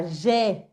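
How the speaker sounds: "je" as a slow "jé", lips spread; open smiled JE. Shown as a demonstration. («je» abierto, como «jé», con sonrisa)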